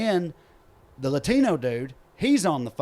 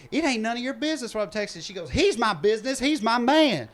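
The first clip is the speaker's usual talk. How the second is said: indignant; 9 semitones higher, 3 dB louder than usual. Retold or imitated. Lady snaps back at accuser.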